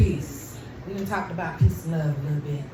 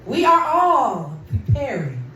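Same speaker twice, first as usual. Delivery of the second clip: spoken word poem. Acted. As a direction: let each line land, gently. Recites a short poem.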